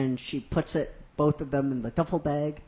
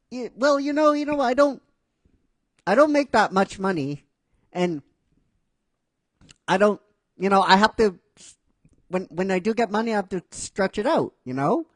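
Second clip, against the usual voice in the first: sheepish excuses; 5 semitones higher, 3 dB louder, faster than usual. Retold or imitated. Naruto makes excuses.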